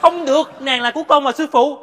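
loud protest. Acted. Disciple fights over girl.

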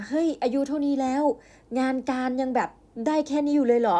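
a hint of a condescending neighbour aunt looking down; belittling auntie. Neighbour aunt scolding the convenience-store girl, lightly mocking.

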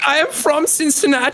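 put-on joking German-tinged Cincinnati accent; mock Cincinnati accent. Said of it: "Cincinnati accent would be kind of German".

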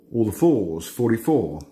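bingo caller. Acted. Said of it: "I start doing my bingo calls".

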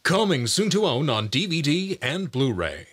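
dramatic home video promo read; movie trailer voice. Shown as a demonstration. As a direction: sell the Blu-ray release grandly. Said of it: "announcer and movie trailer voices".

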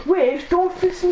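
startled yelp. Real, not acted. Startled in game, shouting.

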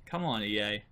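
quiet exasperated mutter; muttered complaint. Real, not acted. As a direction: grumble it at the developers. Complaining about the game.

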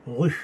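"Rue" with tight rounded lips; "Rue" with a pursed, puffed French u; French U sound. Shown as a demonstration. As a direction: blow the u of "Rue" through closed, rounded lips. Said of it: "Los labios cerrados y como que soplas".

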